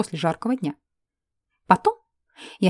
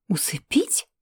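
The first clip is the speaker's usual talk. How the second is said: whispered, shocked question; horrified gasp; 3 dB quieter, slower than usual. Acted. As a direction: gasp «Усыпить?» under your breath in horror. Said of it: "охнула хозяйка невменяемой белки". (испуганно выдохнуть шёпотом «Усыпить?»)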